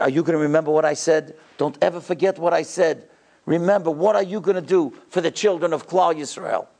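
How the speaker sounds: measured, personal exhortation in an even voice; direct, earnest charge. Retold or imitated. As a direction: put it straight to one listener, without crying out. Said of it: "he looked me straight in the face".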